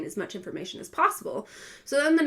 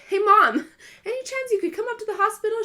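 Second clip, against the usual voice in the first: laughing plea; 12 semitones higher, 5 dB louder, faster than usual. Retold or imitated. Nervous laughing ask to mom.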